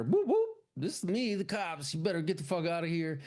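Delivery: high mock cop yelling at teens. Sheriff yelling at kids at Lookout Point, mock cop voice. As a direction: play the swaggering sheriff clearing them out.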